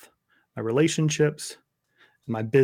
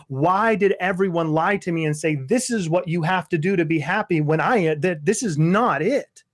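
retold anguished cry; 3 semitones higher than usual. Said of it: "I'm screaming bloody murder at God".

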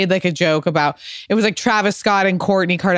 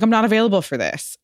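fast, dismissive quip; breezy brush-off; 3 semitones higher, faster than usual. Retold or imitated. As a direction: toss it off quickly. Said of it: "I was like".

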